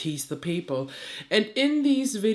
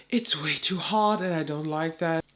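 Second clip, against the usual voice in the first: stuffy nose. Real, not acted. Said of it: "hear this nasally voice of mine".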